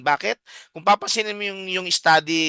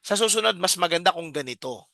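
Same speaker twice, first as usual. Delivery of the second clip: gentle correction; 2 semitones higher than usual. Shown as a demonstration. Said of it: "i-revise natin".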